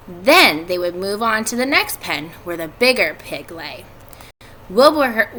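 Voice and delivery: put-on steady read-aloud narration for kids; story narration. A narrator's reading. Teacher reading a chapter to her students, in story narration.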